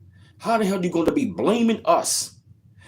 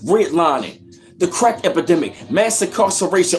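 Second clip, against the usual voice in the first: heated rant; 5 semitones higher than usual. Real, not acted. Vlogger ranting at Latino viewers, angry and raised. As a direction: tear into them, voice climbing.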